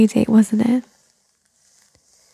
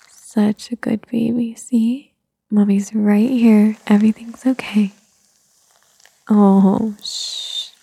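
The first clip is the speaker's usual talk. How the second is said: slow, tender praise; soothing a child; slower than usual. Acted. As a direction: coo it gently to a baby. Praising a baby.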